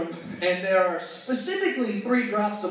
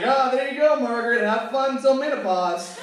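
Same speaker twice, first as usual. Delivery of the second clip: casual God; 3 semitones higher than usual. Acted. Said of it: "God's like".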